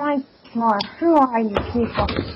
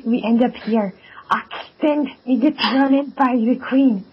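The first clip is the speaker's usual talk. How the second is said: broken English, fake Swedish accent. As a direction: keep the bad Swedish accent going. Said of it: "with a fake Swedish accent still on".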